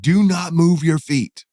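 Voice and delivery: mild mock yell at the guide to freeze; retold yell. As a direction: lay it down slowly, one word at a time. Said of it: "I yelled at him".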